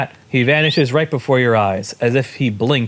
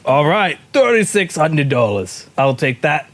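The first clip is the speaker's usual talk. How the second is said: lightly Scottish market trader; attempted Scottish accent; 2 semitones higher than usual. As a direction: take payment in a wobbly Scottish accent. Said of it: "I was trying to do Scottish".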